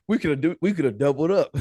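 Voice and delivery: laughing through the words, a bit high and loud; laughing regret. Real, not acted. Telling the host about the missed second buck, laughing. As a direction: chuckle while you say it.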